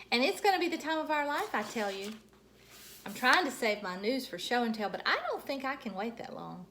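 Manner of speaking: bubbly first grader bursting with news; Junie B voice. Acted. Junie B journal entry read aloud.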